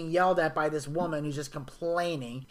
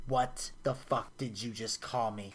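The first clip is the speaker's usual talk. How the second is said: offended; 9 semitones lower, 6 dB quieter, slower than usual. Retold or imitated. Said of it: "turns and pauses and he goes".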